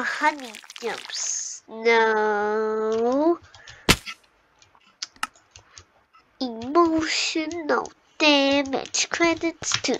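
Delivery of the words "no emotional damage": put-on meme-style Asian accent, slow and deadpan; mock the meme in an Asian accent; the speaker's Asian accent. Player quoting a meme in an Asian accent. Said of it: "why am I using an Asian voice?".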